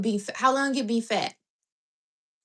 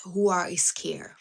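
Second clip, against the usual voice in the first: whisper; 3 semitones lower, slower than usual. Real, not acted. Rhetorical point on fear.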